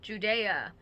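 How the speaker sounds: Judea as joo-DAY-uh; Judea, joo-DAY-uh, slowly; Judea pronunciation. Shown as a demonstration. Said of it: "some people say Judea".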